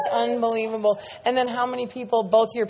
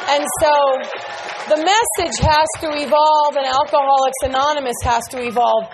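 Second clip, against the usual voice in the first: rising passion; 4 semitones higher, 6 dB louder than usual. Real, not acted. Building to the share's climax.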